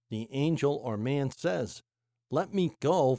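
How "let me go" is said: emphatic. Retold or imitated. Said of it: "it reads rather emphatically".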